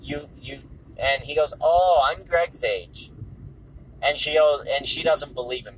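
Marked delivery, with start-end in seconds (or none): 1.6-3.1 slow, raised imitation of his accent; put-on Wiseau-style accent, drawn out; Tommy Wiseau. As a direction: drag it out in a mock foreign accent. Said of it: "he's doing that whole shtick".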